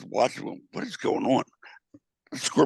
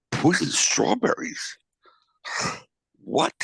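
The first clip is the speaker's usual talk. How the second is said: slow, breathy, disbelieving "Poisoned strawberries?"; incredulous echo; 6 semitones higher, slower than usual. Retold or imitated. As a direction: repeat it as if you can't believe your ears. Stranger's shocked reply in the joke.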